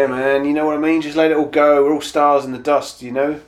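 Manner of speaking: dreamy laid-back hippie; old hippie voice. Retold or imitated. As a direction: float the words like a stoner. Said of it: "Just sounds like an old hippie".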